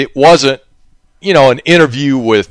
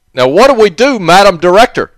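aide asking director; 6 semitones higher than usual. Acted. Acting an aide questioning director.

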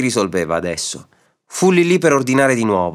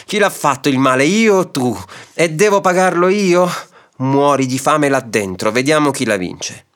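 angry outburst; 4 semitones higher than usual. Acted. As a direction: rage at the injustice, then a threat. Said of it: "riuggì allora lo zirafa".

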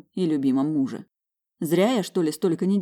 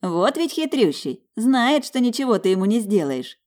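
laughing; 6 semitones higher, 4 dB louder than usual. Acted. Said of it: "расхохоталась Маржа".

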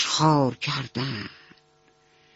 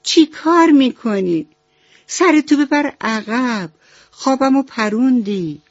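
a higher, louder mouse snapping awake; startled angry shout; 7 semitones higher, 4 dB louder than usual. A narrator's reading. Mouse jolted awake by the calf's head, shouting at him. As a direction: yell at the calf for waking you. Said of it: "یهو از خواب پرید و داد زد".

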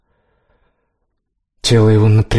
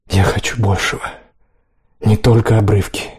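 отчаянно. A narrator's reading. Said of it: "отчаянно проговорил он".

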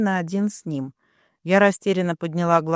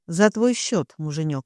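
plain reading voice

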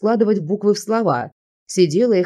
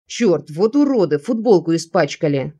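plain reading voice

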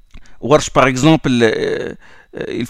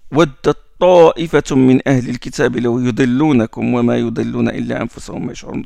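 Quran recitation; 3 semitones lower, much faster than usual. Acted. Recites verse from Al Imran.

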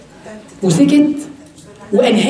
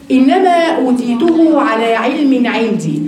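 slow proud quote; slower than usual. Shown as a demonstration. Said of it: "قارون قد إيه استكبر؟".

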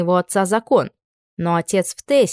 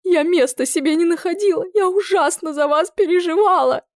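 put-on high, weepy old aunt pouring out worry; tearful aunt; 11 semitones higher than usual. A narrator's reading. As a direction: cry the words out in a high voice. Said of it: "Она плакала так горько". (тётушка горько плачет, высоким голосом)

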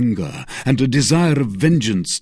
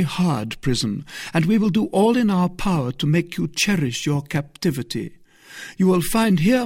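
reassuring; 8 semitones higher, 3 dB louder than usual. A narrator's reading. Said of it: "said the abbess, smiling".

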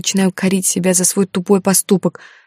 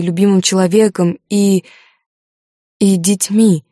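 pleading through held-back tears, a bit louder; a woman confessing, close to crying; mild tearful strain in the voice; holding back tears; 4 dB louder than usual. Acted. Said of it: "глотая слёзы".

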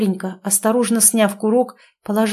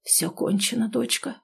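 soft, hopeless whisper; quiet defeated murmur; doomed whisper; 2 semitones higher, 8 dB quieter than usual. A narrator's reading. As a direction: breathe it out, resigned to the end. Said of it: "обречённо прошептал".

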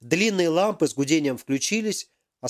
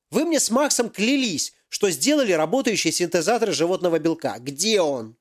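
higher, hammed-up indignant professor; angry professor; 4 semitones higher than usual. Professor confronts Yaroslav over the missing device, indignant. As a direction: demand answers like a cheated boss.

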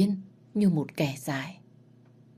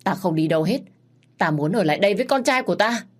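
defiant cry; 4 semitones higher, 4 dB louder, faster than usual. Acted. Mother dragged away from her son.

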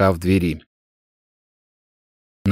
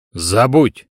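order. Acted. Master commanding the girl to forget, curt. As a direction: close the matter, no argument. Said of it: "приказал мужчина".

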